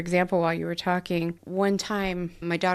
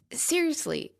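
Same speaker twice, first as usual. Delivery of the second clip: incredulous; 6 semitones higher than usual. Retold or imitated. Incredulous retort to daughter.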